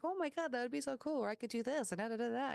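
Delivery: excited. Retold or imitated. Retold excited brainstorming.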